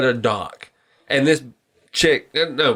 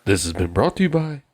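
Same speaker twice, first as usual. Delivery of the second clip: sponsor announcer; 4 semitones lower than usual. Pretend. Mock sponsor tag for segment.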